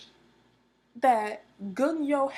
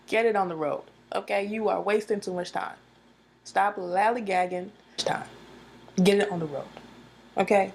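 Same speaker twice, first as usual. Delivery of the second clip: bossy impatient character. Retold or imitated. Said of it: "the way she said it too".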